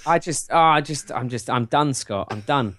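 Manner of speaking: worn out and fed up; miserable from heat. Real, not acted. Overheated host tells his co-host he is done, miserable. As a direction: give up, sagging toward the end. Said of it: "I can hear how miserable you must feel".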